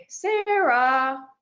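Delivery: drawn-out rising Sarah; questioning call. Shown as a demonstration. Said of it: "tell you guys my name in three different ways".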